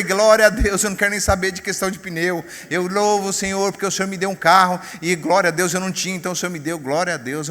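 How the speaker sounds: retold praise. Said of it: "E aí eu falei".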